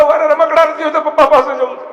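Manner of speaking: high, loud tearful wail; crying child. Retold or imitated. Lost boy refusing sweets, crying for his father.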